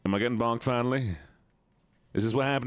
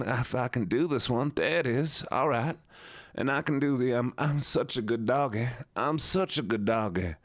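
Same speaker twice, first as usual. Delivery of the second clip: put-on Southern accent with a whine; whiny Southern. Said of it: "Let me mix in the whiny with this one".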